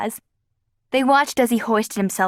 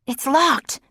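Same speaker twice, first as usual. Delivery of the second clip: exclaiming; 5 semitones higher than usual. A narrator's reading. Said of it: "she exclaimed".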